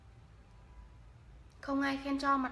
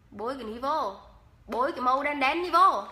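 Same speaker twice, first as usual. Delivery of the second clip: louder Hà Tĩnh phrase, "vô" falling; louder Hà Tĩnh accent; Hà Tĩnh dialect; 4 dB louder than usual. Shown as a demonstration. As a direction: call it out in Hà Tĩnh style. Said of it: "em nói tiếng Hà Tĩnh cho mà nghe".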